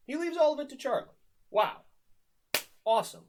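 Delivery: high, loud and fast, gushing; mock excitement. Vlogger hyping the inheritance twist to viewers, mock excited. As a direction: play up the big twist like it's amazing news.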